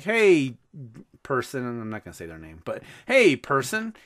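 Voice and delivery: mock casual hello; casual greeting. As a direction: greet them lightly and casually. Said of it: "I'm all casual".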